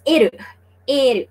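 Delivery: "eru" in two syllables, e-ru, with a tapped r; Japanese-style L. Shown as a demonstration. Teacher showing how Japanese speakers say L, in Japanese syllables. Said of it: "they cannot pronounce the word L".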